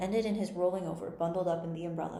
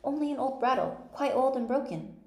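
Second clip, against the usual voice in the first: put-on higher-pitched, reassuring girl; 7 semitones higher, 4 dB louder than usual. A narrator's reading. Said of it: "thinking that he was frightened".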